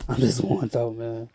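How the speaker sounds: laughing through real pain; bitter chuckle over the words. Real, not acted. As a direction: laugh it off but mean it. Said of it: "I'm laughing because I have a lot of pain".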